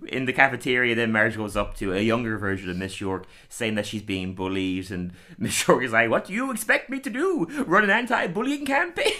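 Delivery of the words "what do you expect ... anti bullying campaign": much higher, mocking teacher; sarcastic teacher voice. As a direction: sneer it out like a bored teacher. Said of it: "I love the voice".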